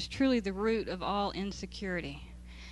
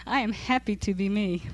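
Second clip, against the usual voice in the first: mocking read. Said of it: "this makes me wanna laugh".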